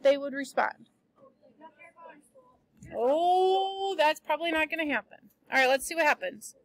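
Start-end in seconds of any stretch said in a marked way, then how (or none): 2.9-6.5 quick, offhand parent brushing it off; mock dismissive parent. Teacher voicing a parent answering a child who refuses school, quick and dismissive. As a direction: wave the threat away like an unbothered parent.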